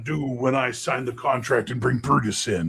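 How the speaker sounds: a hint of a hyped ring announcer; playful mock promo; Hulk Hogan.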